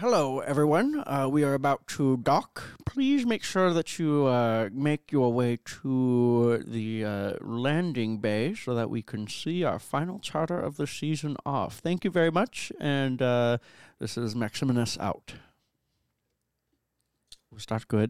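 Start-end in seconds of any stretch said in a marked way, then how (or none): 0.0-15.3 ship's intercom announcement voice. Voicing a ship's docking announcement to passengers, as Maximinus over the intercom. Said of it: "you do hear an announcement over the intercom".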